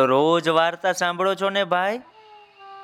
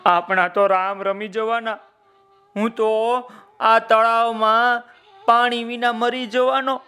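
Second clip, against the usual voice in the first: worried crocodile; 5 semitones higher than usual. Acted. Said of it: "એને થયું".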